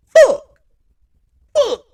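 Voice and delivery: screamed curse, very high and loud; furious yell. Retold or imitated. Imitating Kyler on his way to the locker room, furious yell. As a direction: yell out the frustration. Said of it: "He goes like this".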